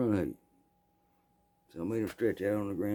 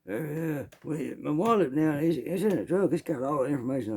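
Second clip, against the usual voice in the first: thief's voice; 6 semitones higher than usual. Retold or imitated. Thief stammering excuses.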